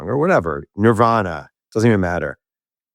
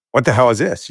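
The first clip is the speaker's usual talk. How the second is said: shocked cry; 4 semitones higher than usual. Retold or imitated. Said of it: "You know, like that".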